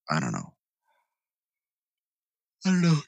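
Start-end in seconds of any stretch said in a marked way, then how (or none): 2.6-3.0 a much higher, squeaky put-on voice; silly high-pitched falsetto; mock high voice. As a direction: pitch it way up, playful.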